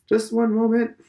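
loud, high hail; calling out. A narrator's reading. Old man stopping Stephen at the gate, loud call. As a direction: call him back before he goes.

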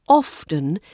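often with a sounded T, OFF-tun; pronounced T. Shown as a demonstration. Teacher sharing own habit, often with T for emphasis. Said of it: "I tend to pronounce the T".

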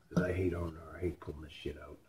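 whispered grumble under the breath; whispering a complaint about pulling the part out; muttered whisper. Real, not acted. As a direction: hiss it to yourself, fed up with the job. Grumbling over the repair job.

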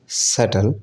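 सटल said suttle, no b; सटल with no b before t; silent b. Shown as a demonstration. Teacher repeats सटल said suttle. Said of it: "सब्टल नहीं होता".

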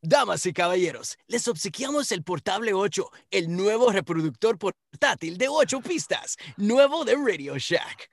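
loud Spanish hype announcer, high and punchy; lucha libre announcer. Acted. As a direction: shout it to the arena crowd. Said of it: "go ahead and take it away".

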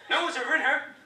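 put-on high, loud cranky old dude griping; grumpy old man. Old dude on the bench grumbles at the comic. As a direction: gripe like a sixty-year-old stranger on a bench. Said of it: "He said".

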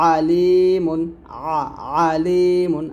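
আলিমুন starting on a squeezed mid-throat ayn; pressed ayn. Shown as a demonstration. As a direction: press and thin the first vowel of আলিমুন, stretch লি. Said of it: "চাপ দিয়ে চিকন করে বলতে হবে".

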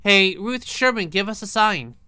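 talking to a ghost. Acted. Calling out to the ghost.

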